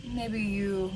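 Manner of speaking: unhurried meditation guide, long pauses; lightly meditative, leaving room to breathe; guided meditation. Acted. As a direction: guide listeners gently through the breath, pausing between phrases.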